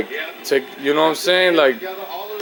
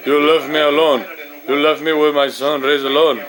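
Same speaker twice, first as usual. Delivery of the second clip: Ivan Drago. Retold or imitated. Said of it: "Ivan Drago style".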